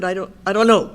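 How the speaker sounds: retold shout. Blurting out to her family that she doesn't know, loud. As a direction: force the words out loudly. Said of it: "I had to kinda shout it".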